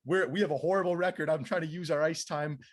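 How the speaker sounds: re-enacted heated complaint; retold blow-up. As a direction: plead your case, acting out the argument. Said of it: "I kinda blew up on this guy".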